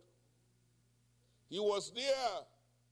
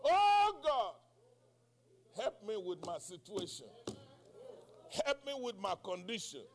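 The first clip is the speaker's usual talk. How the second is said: cry to God. Retold or imitated. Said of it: "I cried unto God".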